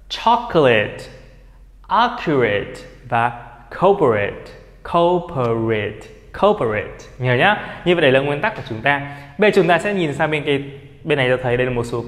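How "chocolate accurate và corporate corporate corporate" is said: chocolate, accurate, corporate each ending in short "it"; reduced "-it" endings. Shown as a demonstration. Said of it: "Còn bên này thì nó là tính từ và danh từ". (đọc chocolate, accurate, corporate với đuôi nhẹ "ít")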